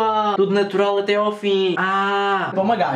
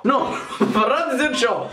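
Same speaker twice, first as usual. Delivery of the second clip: put-on Russian accent; 5 semitones higher than usual. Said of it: "com a famosa voz de russo".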